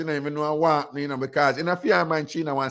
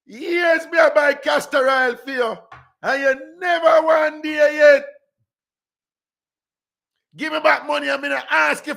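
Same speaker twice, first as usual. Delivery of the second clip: angry shout; 10 semitones higher, 6 dB louder than usual. Retold or imitated. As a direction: shout each word at her. Woman yelling at the other.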